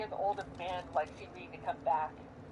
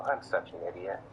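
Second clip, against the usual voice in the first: loud on purpose; 11 semitones lower than usual. Acted. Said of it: "loud enough so that they can hear it".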